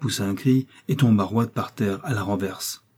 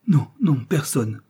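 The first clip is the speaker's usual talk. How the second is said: jerky voice; 5 semitones higher, slower than usual. Acted. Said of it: "d'une voix saccadée".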